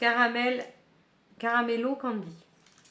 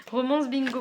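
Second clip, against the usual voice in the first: still laughing; 4 semitones higher, 5 dB louder than usual. Real, not acted. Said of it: "Pardon, je rigole".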